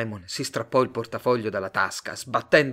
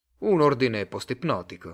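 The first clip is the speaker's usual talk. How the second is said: usual speaking voice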